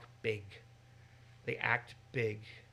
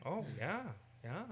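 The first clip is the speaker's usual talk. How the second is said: incredulous; 3 semitones higher, 7 dB quieter than usual. Shown as a demonstration.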